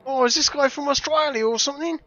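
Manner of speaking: high-pitched mock Australian; Australian accent. Player querying a game character's origins, mock Australian accent. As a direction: ask it in a put-on Australian twang. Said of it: "it's not a very good Australian accent".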